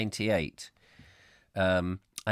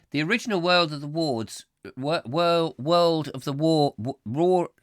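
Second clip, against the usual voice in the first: dramatic announcer; 5 semitones higher than usual. Pretend. Mock dramatic title announcement.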